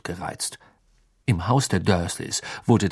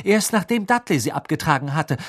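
cool; 6 semitones higher than usual. Acted. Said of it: "sagte Harry kühl".

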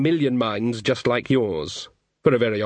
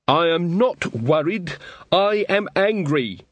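angry words through a door; through a wall; 5 semitones higher, slower than usual. Acted. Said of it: "the muffled voice behind the door".

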